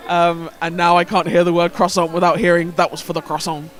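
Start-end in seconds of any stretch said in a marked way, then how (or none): 2.7-3.7 put-on understated Belgian accent at normal volume; toned-down echo of a Belgian accent outburst; slightly aggressive Belgian accent. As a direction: quote it lightly in a Belgian accent. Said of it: "slightly aggressive, um, Belgian accent".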